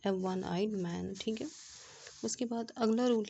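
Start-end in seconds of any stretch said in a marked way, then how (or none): 0.1-1.2 slow dictation. Shown as a demonstration. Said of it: "जैसे कि हमने यहाँ पे एग्जांपल दी है".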